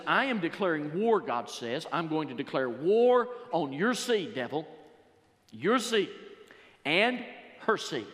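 loud, firm proclamation; preaching God's declaration. Acted. God declaring war on the devil, voiced loud by preacher.

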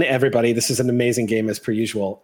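ordinary talk, nothing marked

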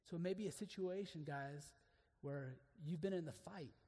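ordinary talk

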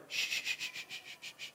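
unvoiced, dismissive shushing; mock shushing; hushing shh. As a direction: shush someone to silence. Shushing the Holy Spirit.

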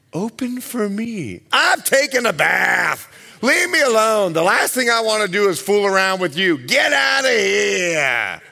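mock annoyed wife. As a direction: snap at the husband to go away. Wife snapping at husband.

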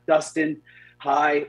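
imitating breathless, one word at a time; staccato. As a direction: gasp out each word separately. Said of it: "one word at a time".

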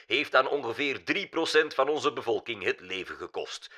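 measured news bulletin, lifted pitch; formal broadcast delivery with stressed phrases; newsreader. A narrator's reading. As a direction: read it out like a news anchor. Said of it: "waarin de nieuwslezer nog steeds doorging".

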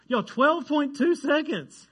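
high, loud, drawn-out disbelief; amazed. Real, not acted. Preacher marvels at the hurdling record to the congregation, amazed.

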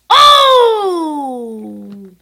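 loud pained cries at the match; dismayed shout. Real, not acted. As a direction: yell in real dismay.

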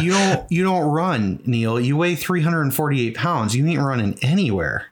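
imitating friends, half-laughing scoff; mocking friends. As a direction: tease him like a buddy over beers. Friends mocking his running plan.

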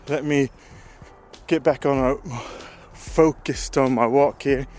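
out of breath from brisk walking; breathing hard while talking; heavy breathing. Real, not acted. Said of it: "Sorry for the heavy breathing".

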